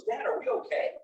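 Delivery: put-on high, hushed child's voice; a frightened boy checking on his dad; worried young son. Son in the car asks dad nervously, high and hushed.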